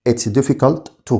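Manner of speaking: said slowly for students to copy; slow model repeat. Shown as a demonstration. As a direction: stretch out "It's difficult to" slowly, word by word. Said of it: "نطق مثال". (نطق بطيء وواضح لـ "It's difficult to")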